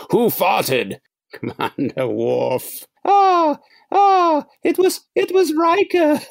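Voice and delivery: high falsetto mock empath with gasps; mock Troi. Mocking Troi sensing a smell on the bridge, high falsetto. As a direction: ham up the counselor blaming Riker.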